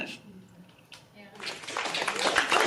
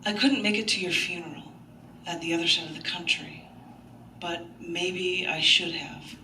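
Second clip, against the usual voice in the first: poem reading. Acted. Reads poem aloud.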